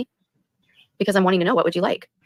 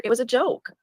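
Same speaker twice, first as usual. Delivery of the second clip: sneering repeat; 9 semitones higher, slower than usual. Real, not acted.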